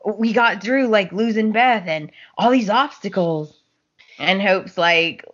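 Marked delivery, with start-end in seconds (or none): 0.0-3.6 pleading Liam. Retold or imitated. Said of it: "he's just like".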